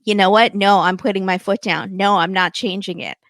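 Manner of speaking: emphatic mock argument in own register; Gino. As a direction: imitate a groom putting his foot down. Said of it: "he's like".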